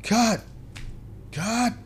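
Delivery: high, sharp call of cut; shouted cut. Retold or imitated. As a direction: yell it like a director stopping the take. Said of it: "all I heard was".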